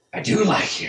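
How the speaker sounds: high, loud angry outburst; loud beastly anger, pitched high; angry bear voice. Acted. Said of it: "like, this, like, angry".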